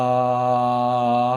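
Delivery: steady held "aaah" on one note; vocal demo of a long, level vowel; long sustained "ah". Shown as a demonstration. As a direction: draw out an even, unwavering "ah". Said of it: "말을 길게 한번 해보세요".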